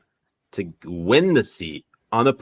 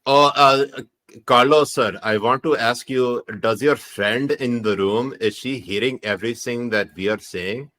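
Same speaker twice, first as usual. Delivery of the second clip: put-on Punjabi accent. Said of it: "when you do your Punjabi accent".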